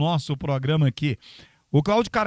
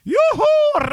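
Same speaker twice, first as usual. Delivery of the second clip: high cheering whoop, louder; excited whoop; 6 dB louder than usual. Real, not acted. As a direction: cheer like a crowd. Celebrating subscriber count.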